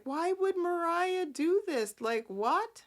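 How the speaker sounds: high puzzled questioning voice; lightly voiced baffled relatives; mock confused family. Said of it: "they're like".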